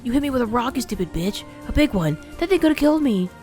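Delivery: high, loud furious yell; outraged whine. Acted. Demo yelling at the old woman, hurt and furious. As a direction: rage at her through the pain.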